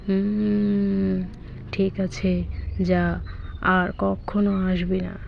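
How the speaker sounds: low, slow stern boss. Acted. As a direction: dismiss him coldly from above. Leader car dismisses beaten car.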